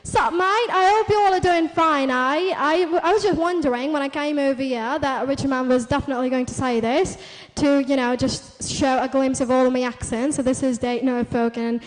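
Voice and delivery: drawn-out Cockney and Norfolk accent; broad Cockney English, vowels stretched. Shown as a demonstration. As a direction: talk like a matey Cockney. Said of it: "now up for the Cockney accent".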